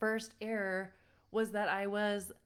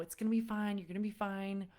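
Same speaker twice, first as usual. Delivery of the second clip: consoling; faster than usual. Retold or imitated. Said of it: "consoling him".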